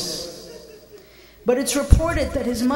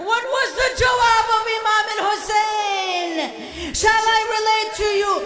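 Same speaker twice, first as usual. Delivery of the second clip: impassioned lament; 8 semitones higher, faster than usual. Acted. Preacher to mourners at a majlis, high wailing lament. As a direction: pour out grief to the mourners at full force.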